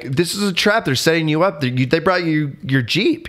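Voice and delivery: imitating Milo. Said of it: "his friend Milo's like".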